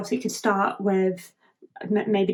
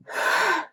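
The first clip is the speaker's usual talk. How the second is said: spent sigh; 9 semitones higher than usual. Acted. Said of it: "like, last bit of power".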